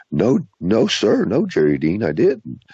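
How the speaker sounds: a hint of a scared kid insisting; boy's voice. Boy's frightened denial retold.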